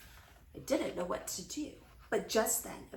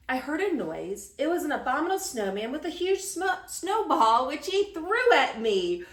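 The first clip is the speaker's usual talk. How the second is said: high, loud tall-tale telling; lightly voiced thrilled grandpa; excited storytelling grandpa; 5 semitones higher, 6 dB louder than usual. A narrator's reading. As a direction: build the wild story with glee.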